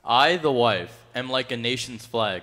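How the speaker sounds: reading up for the world to hear. Real, not acted. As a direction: project it to the room. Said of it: "raise that voice a little bit more".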